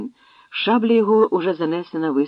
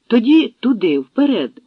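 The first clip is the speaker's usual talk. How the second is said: higher, louder battle call; commanding call; 7 semitones higher, 7 dB louder than usual. Acted. Khan calls his riders across the ford, loud command. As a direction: send the horsemen forward. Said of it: "гукнув Менгу".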